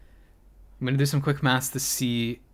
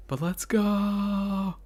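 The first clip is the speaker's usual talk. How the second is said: whisper yelling; 9 semitones higher, much slower than usual. Real, not acted. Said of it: "I had to whisper yell".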